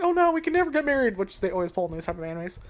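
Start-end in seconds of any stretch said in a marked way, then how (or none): 0.0-1.2 put-on higher, fussy panicked girl; overdone anime heroine alarm; lightly voiced flustered girl crying out; mock dramatic girl. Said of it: "they weren't like".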